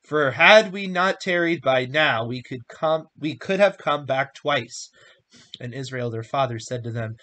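measured, emphatic reading of a Bible story; scripture reading. A narrator's reading. Reading Genesis aloud to listeners, emphatic scripture reading. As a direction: read it out with clear, weighty stresses.

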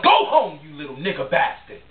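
King imitating the white man's shout, half-acted; retold hateful yell. King relays the trucker's yell to Malcolm, mock yell.

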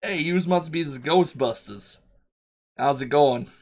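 friendly New York transit worker, lifted pitch; MTA worker greeting. Acted. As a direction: hail them like a local subway guy. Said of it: "gives you a little wave and goes".

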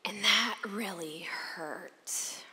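breathy whisper of real hurt, slowed; hushed hurt. Real, not acted. Telling the audience of the hurt, whispered slowly. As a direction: let the pain drop to a whisper. Sharing painful story on stage.

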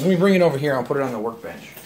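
straining while lifting something heavy; carrying heavy load. Real, not acted. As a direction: talk while hauling a heavy fan. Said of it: "so it weighs a ton".

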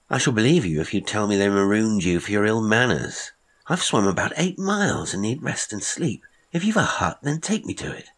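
exasperated demand, climbing in pitch; tired swimmer losing patience. Acted. Patterson, exhausted and irritated.

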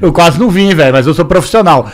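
numb mouth after the dentist; boca anestesiada. Real, not acted. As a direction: talk through a numb mouth. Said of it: "Eu tô com a boca anestesiada". (falando com a boca anestesiada)

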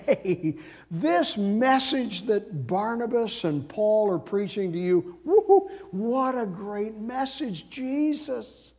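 hushed, ingratiating false praise, lifting at the end; softly butter them up as a sly false teacher; mock sweet-talking. Voicing Judaizers sweet-talking the converts.

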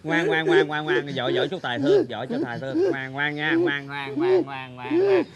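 coaxing, repetitive there-there; soothing like a child. Acted. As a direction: hush a crying old man like a toddler. Soothes crying friend like child.

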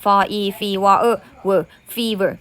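syllable by syllable, then "fever" whole; sounding out. Shown as a demonstration. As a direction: slowly blend "for E" and "เออ" into "fever". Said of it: "อ่านว่า".

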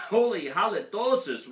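high, loud roar of disgust; dinosaur roar. A narrator's reading. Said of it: "roared the T-Mexito".

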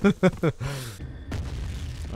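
giggle. Real, not acted. Laughing at own joke.

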